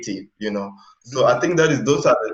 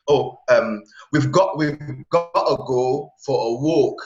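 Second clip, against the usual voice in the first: British accent. Shown as a demonstration. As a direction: try a British accent on the phrase, unhurried. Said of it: "if I put in a British accent".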